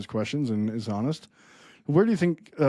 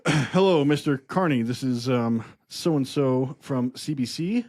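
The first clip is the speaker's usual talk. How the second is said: mock reporter; slower than usual. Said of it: "You be, you be P M Carney still".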